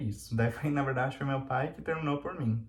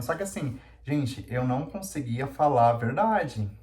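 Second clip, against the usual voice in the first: usual speaking voice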